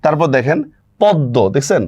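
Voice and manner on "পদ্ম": পদ্ম as "pod-do", no m; silent m. Shown as a demonstration. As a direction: double the d in পদ্ম, leaving out the m. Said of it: "মফলার উচ্চারণ হচ্ছে না".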